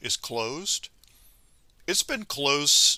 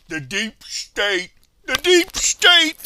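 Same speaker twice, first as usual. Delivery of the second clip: sarcastic spooky mock voice, building much higher and louder; 12 semitones higher, 9 dB louder, slower than usual. Mocking the deep state belief.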